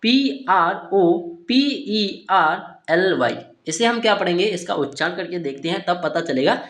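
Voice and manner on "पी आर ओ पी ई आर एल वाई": each letter spoken slowly and apart; slow letter-by-letter spelling. Shown as a demonstration. Teacher spelling a new word for students, slow and deliberate. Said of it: "next आता है".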